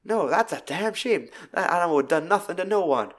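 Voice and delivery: put-on Southern innocence; Southern charm. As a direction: imitate a smooth Southern charmer. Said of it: "his southern charm".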